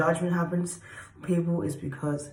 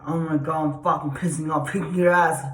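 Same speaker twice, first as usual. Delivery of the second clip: mildly acted anger, building louder; angry, pissed off; 6 dB louder than usual. Shown as a demonstration. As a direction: vent it, punching the final words. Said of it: "that's the angry energy when they're pissed off".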